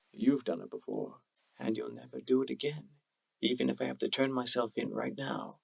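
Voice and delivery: quiet, gentle resolve; soft but firm. A narrator's reading. Lover quietly refusing his plan, soft and firm. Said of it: "the soft voice of U twenty-one said firmly".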